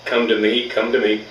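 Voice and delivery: lightly voiced sweet-talking bull; coaxing bull. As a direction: croon it like a lonely bull calling his cow.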